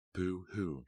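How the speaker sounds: a sneering, singsong boo-hoo; mock his self-pity; taunting him with a mild mock cry; nasty mock sympathy. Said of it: "she replied nastily".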